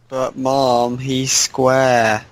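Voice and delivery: mock whining kid; sarcastic. Co-host mimics a child complaining to Mom, sarcastic. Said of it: "I'm being sarcastic".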